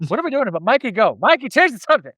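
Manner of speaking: high, fast flustered babble. Retold or imitated. Host imagining swooning at a British recital, flustered high babble. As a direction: pretend to be swooning and change the subject.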